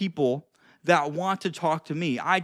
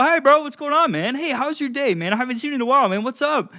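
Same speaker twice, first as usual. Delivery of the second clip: playful and excited; 7 semitones higher than usual. Shown as a demonstration. Demonstrating a fun greeting to a friend, playful and excited. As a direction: greet him like you're thrilled to see him. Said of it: "But if I'm playful".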